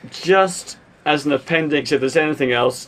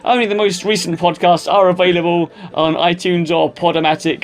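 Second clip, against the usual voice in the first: radio DJ voice. Acted. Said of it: "I'm sounding like a radio D J now".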